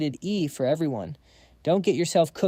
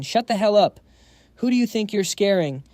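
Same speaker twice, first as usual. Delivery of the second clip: much louder, higher enraged shriek; 5 semitones higher, 5 dB louder than usual. Acted. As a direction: shriek it out through the pain. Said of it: "Quach shrieks in pain".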